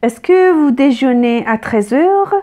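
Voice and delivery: slow, clear dictation pace; slow classroom example with "est-ce que"; slow teacher read. Shown as a demonstration. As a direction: spell it out word by word for learners. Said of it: "Par exemple".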